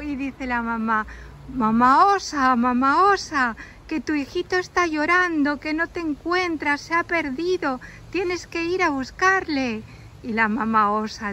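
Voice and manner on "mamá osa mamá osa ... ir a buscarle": lightly voiced squirrel mother calling out; raised pitch, calling to another animal with news; a touch of urgency, acted for children; urgent calling. Squirrel calls up to mother bear.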